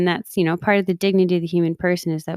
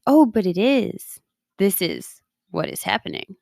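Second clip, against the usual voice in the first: calm acceptance. Retold or imitated. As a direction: let it go, gently admitting it. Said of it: "to just be like".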